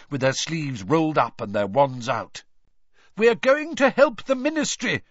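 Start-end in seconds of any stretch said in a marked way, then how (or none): 3.2-5.0 high, loud shout over the noise; Mister Weasley calling over the chaos, shouting high and loud. A narrator's reading. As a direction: shout it over a crowd's din. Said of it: "Mister Weasley shouted over all the noise".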